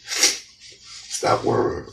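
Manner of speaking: very slow, drawn-out whisper; stretched-out hushed reassurance. Pretend. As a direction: let each word linger, whispering. God's message repeated softly.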